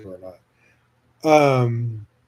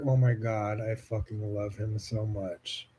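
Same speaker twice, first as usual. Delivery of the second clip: soft, breathy-free hushed gush of love; half to herself, melting over him; 3 semitones lower, 9 dB quieter than usual. Retold or imitated. Retelling her reaction to him, hushed and gushing. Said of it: "I was like".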